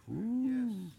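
awed ooh. Real, not acted. Awe after verse.

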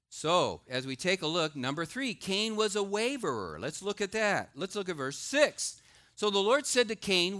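loud, high preaching from the pulpit; preaching at full force. Acted. Pastor preaching to the congregation, loud and driving. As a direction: proclaim it to the whole room.

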